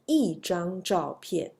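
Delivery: 一 falling in 一张照片; fourth-tone 一. Shown as a demonstration. Teacher recaps the tone rule, 一 in falling fourth tone. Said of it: "this E is a fourth tone".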